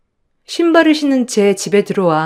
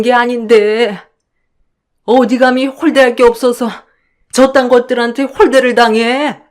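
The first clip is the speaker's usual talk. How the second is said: tearful wail of self-blame, raised pitch; lamenting mother; 4 semitones higher, 3 dB louder than usual. Acted. Mother crying to her daughter, lamenting her fault. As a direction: grieve and blame yourself. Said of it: "바닥에 주저앉아 우시더라고요".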